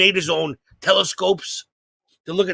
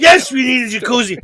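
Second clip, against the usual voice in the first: put-on loud, higher, kid-like cheer; excited kids yelling; 5 semitones higher, 3 dB louder than usual. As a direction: yell it like a thrilled ten-year-old. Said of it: "Me and my brother are like".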